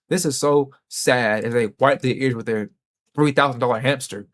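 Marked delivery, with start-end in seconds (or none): 0.1-1.4 mock pity. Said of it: "all they have to say is".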